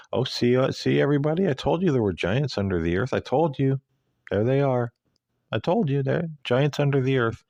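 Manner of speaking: high, sing-song mock calm; light parody of a matter-of-fact woman. Mocking a calm woman filming giants under the earth. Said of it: "Would you stand there very calmly going".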